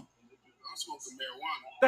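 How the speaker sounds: shouted, slow and deliberate; loud slow retort. Real, not acted. Man shouting back at friend who called him a smoker, loud and slow. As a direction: bellow it word by word.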